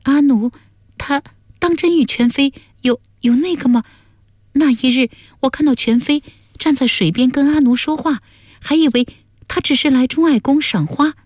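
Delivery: high-pitched wife with halting phrases; hurt, hesitant daughter. Acted. Wife asking her father about husband's affair, high hesitant hurt. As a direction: falter through it in a high voice.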